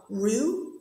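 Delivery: Ru held out alone as the strong beat; first-syllable stress. Shown as a demonstration. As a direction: isolate the Ru of Ruby. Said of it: "it's on the Ru".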